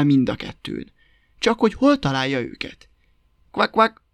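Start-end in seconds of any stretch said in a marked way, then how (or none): 3.5-4.0 high, spoken frog quacks; storyteller's croaking frog noise. A narrator's reading. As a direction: imitate a frog's croak, pitched up. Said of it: "hallatszott egyszerre a zsombékosból".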